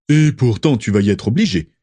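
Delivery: a touch of a mocking snigger; sneering. A narrator's reading. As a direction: taunt her with a sneer. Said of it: "ricana Rodolphus Lestrange". (ricanement moqueur, un peu plus fort)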